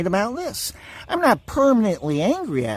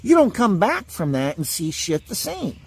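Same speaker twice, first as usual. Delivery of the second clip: normal talking voice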